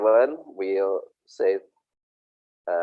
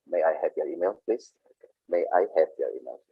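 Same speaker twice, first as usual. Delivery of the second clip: polite request; 3 semitones lower, 5 dB quieter, faster than usual. Shown as a demonstration. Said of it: "This is so polite".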